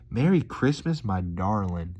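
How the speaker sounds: a touch of Southern country sweetness; lightly imitating the country waitress; country accent. Vlogger imitating the waitress, a touch of Southern country accent. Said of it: "just countryed it up".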